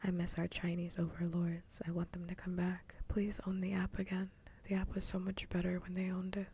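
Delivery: hushed whisper all the way through. Real, not acted. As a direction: keep it a secret-sharing whisper.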